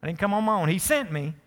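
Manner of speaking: lightly voiced soothing preacher, softening him up; a hint of a smooth preacher winning him over; preacher talk. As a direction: coax him gently like a pastor. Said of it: "This is like preacher talk".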